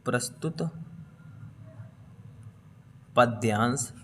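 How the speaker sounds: प्रस्तुत, long pause, then पद्यांश; each word left hanging as you write; word-by-word dictation. Shown as a demonstration. Dictating while writing it down.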